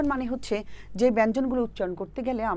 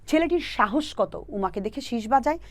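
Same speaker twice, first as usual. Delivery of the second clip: slow mnemonic repeat; 2 semitones higher, slower than usual. Shown as a demonstration. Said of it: "আবারও দেখো".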